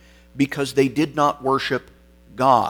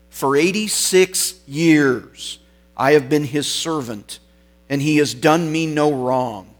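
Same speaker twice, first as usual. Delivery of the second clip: very clear voice; 2 semitones higher, 4 dB louder than usual. Retold or imitated. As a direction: declare it clearly, as retold testimony. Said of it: "answered in a very clear voice".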